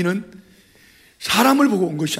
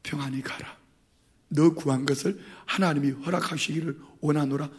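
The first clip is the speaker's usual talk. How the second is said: whispered gentle blessing; 6 semitones lower, 10 dB quieter than usual. Retold or imitated. Eli quietly sends Hannah away in peace. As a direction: breathe the blessing softly. Eli's blessing voiced again.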